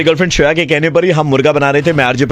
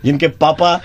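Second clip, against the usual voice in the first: laughing; 11 semitones higher than usual. Real, not acted. Host signs off laughing.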